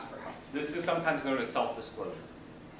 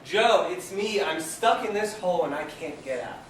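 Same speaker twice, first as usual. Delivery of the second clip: yelling to a friend; 4 semitones higher, 5 dB louder than usual. Acted. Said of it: "Our guy in the hole yells".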